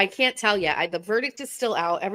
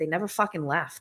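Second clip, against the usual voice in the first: put-on flat, expressionless tone; 2 semitones lower, 4 dB quieter than usual. Retelling the son's reply about fidget spinners: imitating son's deadpan delivery. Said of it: "fucking deadpans at me".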